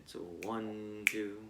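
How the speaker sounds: counting out a half note; counting aloud. Shown as a demonstration. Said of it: "counting to two in your head".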